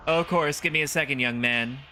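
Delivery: lightly voiced obliging granny; a hint of a high old-lady voice; polite old lady. Old lady obliges young visitor, lightly voiced polite granny.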